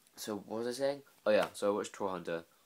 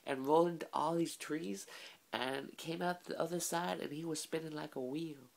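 put-on much higher, silly made-up Norwegian accent; mock Norwegian accent; 10 semitones higher than usual. Vlogger voicing a troll hunter telling of a troll, in high mock Norwegian accent. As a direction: squeak out a hammed-up Norwegian accent, an octave too high. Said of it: "So that's what a Norwegian accent sounds like to me".

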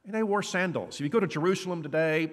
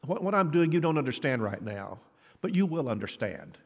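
gently. Acted. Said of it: "Jesus very gently says".

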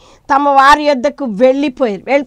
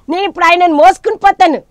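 high, loud acted resolve; bold declaration; 7 semitones higher, 7 dB louder, faster than usual. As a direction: raise the voice in a bold vow. Voices Mary's bold declaration.

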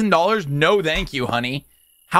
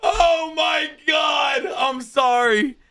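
slow, high words through laughter; real helpless laughter; laughing hard; 7 semitones higher, slower than usual. Real, not acted. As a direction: barely get it out through laughter. Cracking up at game.

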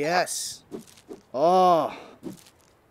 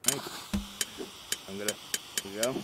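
usual speaking voice

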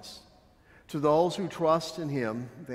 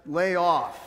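raised, loud defending cry; cried out; 4 semitones higher, 4 dB louder than usual. Acted. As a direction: cry out to silence the other thief. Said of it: "he cried".

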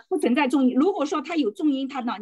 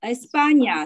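"España" with the middle "pa" stressed; teacher's emphatic model of "España"; 4 dB louder than usual. Shown as a demonstration. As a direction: lean on the long A in "España", light "ña" after it. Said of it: "它重音还是在这个啊上面".

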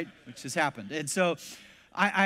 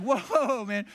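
high, loud "hold on"; drawn-out mock alarm; alarmed halting; 6 semitones higher, 6 dB louder than usual. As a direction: rein in an overeager friend. Halting the friend's eager list.

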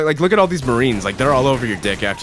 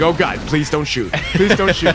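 pleading hostage; 4 semitones higher than usual. Retold or imitated. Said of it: "they're like".

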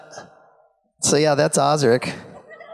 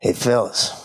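low, sly greeting; drunk Gil voice; 6 semitones lower than usual. Retold or imitated. Imitating tipsy Gil greeting the guys in a low voice. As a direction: lower your voice and get a little sleazy. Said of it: "he's like".

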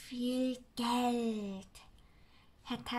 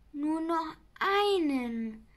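a bit higher and louder, warning; warning Sams; 4 semitones higher, 8 dB louder than usual. Acted. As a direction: caution him as the Sams. Sams warnt. (warnendes Sams, etwas höher)

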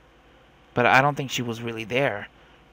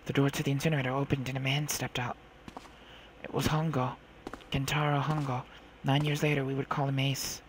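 measured first-person storytelling; story narration; 4 dB quieter than usual. A narrator's reading. Girl recalls slipping back into the ship, measured narration. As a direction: narrate a tense childhood memory evenly.

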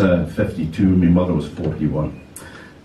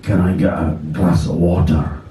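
a lightly voiced, lower, faint teacher just coming round; a hint of a dazed, weakened man asking for water; weak voice; 4 semitones lower than usual. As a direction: ask feebly, as if only half conscious. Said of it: "in a kind of a weak voice".

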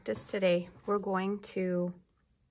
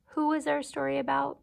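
secret-sounding whisper; whispered question; 7 semitones higher than usual. Acted. Teacher whispers story questions to a child.

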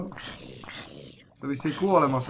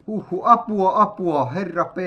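calling for help; 4 semitones higher, 4 dB louder than usual. Acted. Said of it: "Joku huutaa siellä juttuja".

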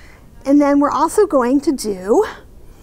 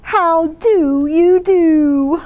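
put-on baby voice; 3 dB louder, much slower than usual. Baby character greets parents.

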